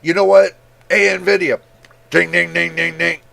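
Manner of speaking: loud mock call to Nvidia, knocking ding ding; mock demand to Nvidia. Viewer calling out Nvidia, a mock angry demand. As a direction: pretend to bang on Nvidia's door. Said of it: "I hope you guys get pissed too and say".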